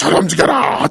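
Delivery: impassioned, fervent preacher-style shout. Imitating the pastors' distinctive passionate voice tone: fervent preacher's shout. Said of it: "여러분 할 때 그 목소리 톤으로".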